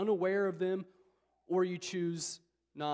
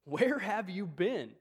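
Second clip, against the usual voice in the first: exasperated question; 3 semitones higher, 5 dB louder, much slower than usual. Retold or imitated. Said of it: "he says".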